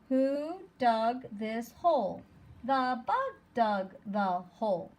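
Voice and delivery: storybook pace, every word distinct; slow read-aloud. Acted. Teacher reading a story slowly to the class. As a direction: read it slowly and clearly for young kids.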